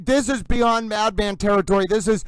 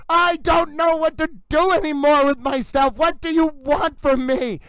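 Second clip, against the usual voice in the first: exasperated shout at a lawyer; furious yell; 3 semitones higher than usual. Real, not acted. Livestreamer yelling at the defense lawyer, furious shout. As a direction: yell it out in real fury. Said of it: "you heard me yelling".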